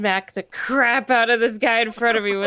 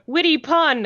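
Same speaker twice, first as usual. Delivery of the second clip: higher-pitched half-yell through laughter; mild mock yell; 7 semitones higher, 3 dB louder than usual. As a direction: call it out as a hammy battle cry. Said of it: "I'm gonna just yell".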